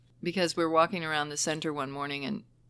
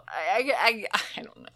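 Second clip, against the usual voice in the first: whispered hesitation; 3 semitones higher than usual. Real, not acted. Unvoiced hesitation.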